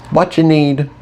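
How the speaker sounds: cheerful. A narrator's reading. Red offering the boss help, cheerful. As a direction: ask cheerily, eager to help. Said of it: "he said cheerfully".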